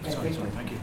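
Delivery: put-on "Offaig" drawn out slowly in a Connemara accent. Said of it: "Connemara would say".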